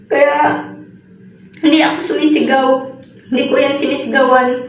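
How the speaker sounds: choked-up denial between pauses; real sadness. Real, not acted. Upset caregiver denying she shouted at the baby, sad. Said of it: "nalulungkot kasi ako".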